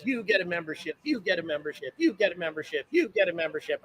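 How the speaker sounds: light Oprah giveaway chant, "You" punched each time; lightly voiced Oprah handing out gifts; Oprah impression. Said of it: "back to my, uh, Oprah impersonation".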